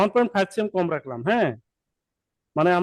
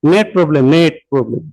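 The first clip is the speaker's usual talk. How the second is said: loud and clear over bad line; 4 semitones lower, 10 dB louder than usual. Real, not acted. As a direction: raise voice so they hear. Repeats louder over bad connection.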